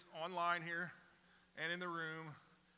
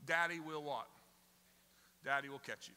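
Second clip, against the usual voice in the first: coaxing dad; 2 semitones lower than usual. Retold or imitated. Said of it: "we say".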